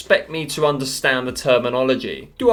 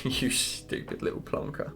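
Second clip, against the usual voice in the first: laughing mock insult; 12 dB quieter than usual. Real, not acted. Mocking a frilled shark.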